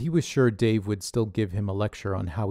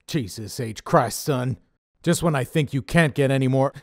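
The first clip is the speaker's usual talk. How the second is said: louder, gruff-voiced boss scolding; Dave's scolding voice; 4 semitones higher, 6 dB louder than usual. A narrator's reading. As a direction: play Dave the bossy leader, chewing him out. Dave exasperated at Connor.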